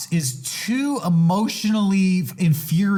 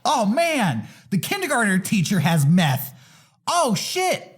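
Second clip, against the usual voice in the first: rising, faster and faster disbelief; mock shocked realization; 5 semitones higher than usual. Watching Cops at home, mock shocked and speeding up. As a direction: pile up the shock, speeding through the list.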